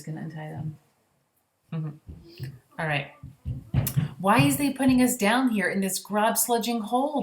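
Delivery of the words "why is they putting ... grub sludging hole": higher, louder giant shout; angry giants shouting. A narrator's reading. Giants shouting up at the BFG from the pit, loud and angry. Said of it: "they shouted at the B F G".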